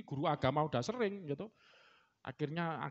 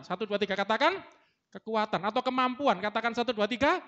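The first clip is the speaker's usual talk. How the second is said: higher, louder preacher's cue to the congregation; rallying call-out; 6 semitones higher, 7 dB louder than usual. Real, not acted. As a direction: lead the crowd in saying it together. Preacher cues congregation to repeat words. (seruan lantang mengajak jemaat mengulang)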